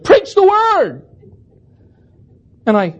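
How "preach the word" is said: high, slow shouted "Preach the word!"; yelled response. Retold or imitated. Old man urging the preacher on, high slow yell. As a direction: cry it out from the congregation. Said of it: "yelled up at me".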